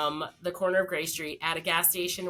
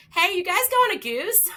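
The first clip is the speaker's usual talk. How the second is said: high, louder call to strangers; 12 semitones higher, 6 dB louder than usual. Retold or imitated. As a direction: imitate a friend brightly hailing someone. Friend calls out to strangers.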